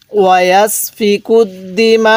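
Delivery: joined, drawn-out recitation; tajweed linking demonstration; slow recitation. Shown as a demonstration. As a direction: recite the joined phrase slowly. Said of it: "আর যদি মিলিয়ে পড়ি".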